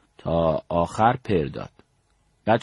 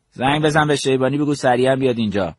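commanding; 5 semitones higher, 4 dB louder than usual. Retold or imitated. Commander orders his aide to phone.

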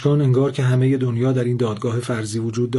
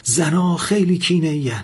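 higher, louder shouted threat; furious shouted threat, higher and louder; 6 semitones higher, 4 dB louder than usual. Acted. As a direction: shout it at him with a gun raised. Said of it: "فریاد زد".

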